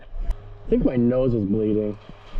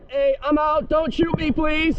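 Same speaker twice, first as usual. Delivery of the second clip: raised, urgent plea to stop; panicked surrender shout; slower than usual. Real, not acted. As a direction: call out fast so they stop shooting. Surrendering under fire.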